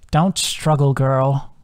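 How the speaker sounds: lightly voiced old hag; a hint of a cold witch. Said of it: "the hag said".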